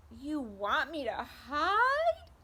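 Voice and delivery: high, loud, tearful Bird voice; a hurt little bird wailing his question; crying Bird. Acted. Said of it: "And he's still crying".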